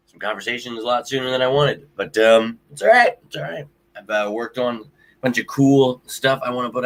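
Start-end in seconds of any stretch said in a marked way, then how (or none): 2.7-3.2 it's all right, much higher and louder, pushed out brightly; loud self-reassurance; forced cheer. Real, not acted. Consoling himself and viewers. 3.3-3.7 softly telling himself it's fine; soft reassurance. Real, not acted. Consoling himself and viewers.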